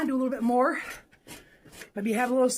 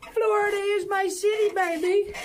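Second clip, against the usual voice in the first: hype shout; 6 semitones higher than usual. Real, not acted. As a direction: shout out the home city with pride. Hyping his home city.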